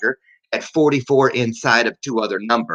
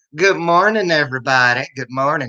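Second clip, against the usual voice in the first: practiced, put-on Southern US accent; 2 semitones higher than usual. Greeting everybody watching, practicing a southern accent. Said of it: "That's my southern accent I'm practicing".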